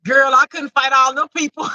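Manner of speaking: lightly voiced friend, ruefully admitting defeat; voicing him. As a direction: speak as him, shrugging it off with a "girl". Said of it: "He's like".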